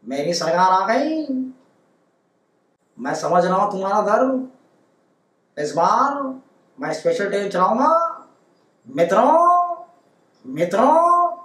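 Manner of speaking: hammed-up politician's rally speech, calling out mitron; Modi impression. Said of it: "जैसे मोदी साहब मित्रों".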